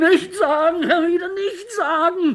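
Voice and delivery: a desperate sobbing cry to the tormentor; crying plea. Acted. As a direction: beg through tears.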